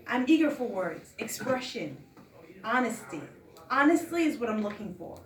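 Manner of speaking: measured, emphatic poem reading; poetry recital. Acted. Poet reads artist statement to listeners, poetry recital. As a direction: recite in phrases, leaning into openings.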